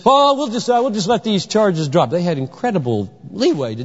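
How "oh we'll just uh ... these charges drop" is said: casual offhand governor. Retold or imitated. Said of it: "governor says".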